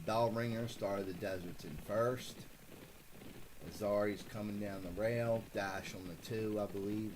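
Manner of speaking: casual live play-by-play of horse positions; light track-announcer commentary; race call. Acted. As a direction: read off the field as they round the turn. Calls the second race replay.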